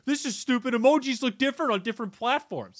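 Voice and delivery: high-pitched imitation of a petty complainer; mock complaint. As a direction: put on a high, silly objector's voice. Voicing a whiny objector to emojis.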